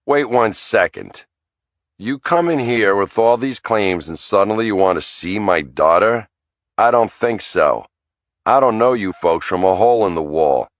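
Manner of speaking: defensive father getting heated; rising anger. Acted. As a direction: push back at the intruders. Father confronting pushy lawyer.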